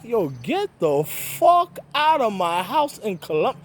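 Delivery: slow, drawn-out get-out; mock telling her off, slowly; dragged-out eviction line; retold angry order. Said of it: "I was like".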